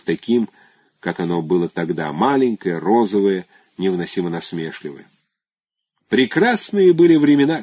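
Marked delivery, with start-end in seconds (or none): 6.1-7.6 raised, nostalgic exclamation; mild shout. A narrator's reading. Petrishchev reminiscing to Luzhin, a mild shout. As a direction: call out the good old days. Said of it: "крикнул Петрищев".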